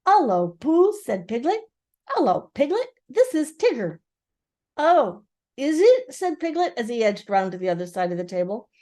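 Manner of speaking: high, small, nervous piglet voice; small timid voice. Acted. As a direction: squeak it, small and shy.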